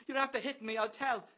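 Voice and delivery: high falsetto whimper. A narrator's reading. Bloom, slapped by Bello, whimpers a threat. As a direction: whimper like a tattling child. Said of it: "Bloom whimpers".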